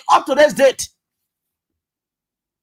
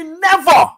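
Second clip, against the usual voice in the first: NEVER said high and loud with a falling end; a stressed Never echoing the former president; imitating her firm never; 6 semitones higher, 5 dB louder than usual. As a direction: hit Never hard like she did. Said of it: "as she's saying the never".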